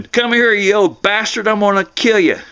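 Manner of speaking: mock scream. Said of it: "her screaming".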